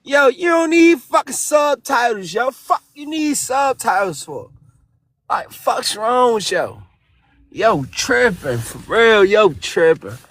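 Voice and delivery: heavy Baltimore slang, hard to follow; thick Baltimore accent. Acted. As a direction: talk like you're from Baltimore, thick. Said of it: "Someone translate that".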